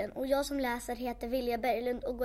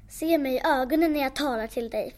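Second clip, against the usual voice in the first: commanding; 5 dB louder than usual. Acted. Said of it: "fortsätter skogsbländan".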